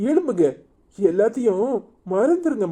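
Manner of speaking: high, pressing call to get up; urgent plea. Acted. Son-in-law begging his kneeling father-in-law to stand, urgent high plea. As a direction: lift the voice sharply, pleading.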